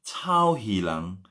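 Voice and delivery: drawn-out "Cao Hilang"; slow spelled demo. Shown as a demonstration. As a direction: say "Cao Hilang" slowly, each syllable apart. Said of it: "C H A U".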